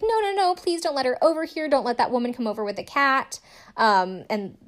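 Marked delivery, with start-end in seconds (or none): 0.0-3.4 mock panic. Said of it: "she's like".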